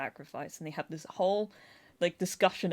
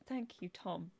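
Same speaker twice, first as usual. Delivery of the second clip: hushed, breathy gratitude; softly whispered thank you to Tom; 12 dB quieter, slower than usual. Retold or imitated. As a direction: whisper it like a relieved secret. Grateful aside to Tom.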